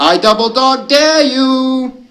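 high, loud werewolf dare; howled taunt. A narrator's reading. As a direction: howl it out as a challenge. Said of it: "another howled".

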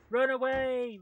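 loud, high cry to flee; full-voiced alarm; panicked shout. Real, not acted. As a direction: scream it as you bolt. Fleeing danger in game.

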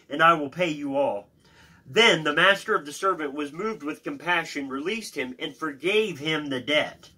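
emphatic Bible reading aloud; scripture reading. Acted. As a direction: read out the parable with weight on key words.

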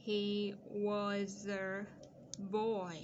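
put-on "he was a", pause, then "boy", all drawn out; stretched-out reading with a break before "boy"; slow dictation. Shown as a demonstration. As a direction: dictate very slowly, holding each word. Dictating the rest of the sentence.

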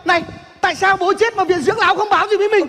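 high, excited cry at the news; elated outburst. Acted. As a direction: blurt it out as if celebrating. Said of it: "bắt được mỗi hai từ bố chết mà anh sung sướng".

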